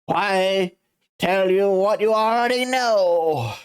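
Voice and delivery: lofty, amused rich man; pompous CEO voice. Acted. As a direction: look down on the lawyer with a chuckle. Red White smug.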